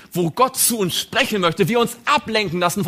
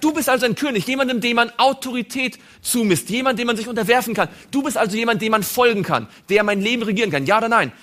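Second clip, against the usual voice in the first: higher, pressing Pilate interrogating Jesus; Pilate questioning; 4 semitones higher, faster than usual. Acted. Pilate interrogates Jesus, higher and demanding. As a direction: press him for a yes or no.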